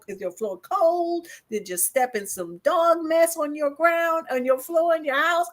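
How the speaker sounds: mock-outraged Brooklyn rant; Brooklyn incredulous. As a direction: scold them like a New Yorker who can't believe it. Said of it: "But I'm like".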